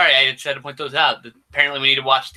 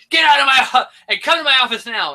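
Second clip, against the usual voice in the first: mock angry yell, raised high; imitating the chief yelling; 8 semitones higher, 4 dB louder than usual. Chief yelling at his cops to come to his office, mock angry. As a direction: bark it like a furious police chief. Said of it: "and he goes".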